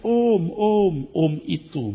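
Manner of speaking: retold cry of alarm; imitated yelling. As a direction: imitate a woman yelling for help. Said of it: "dia yang teriak-teriak".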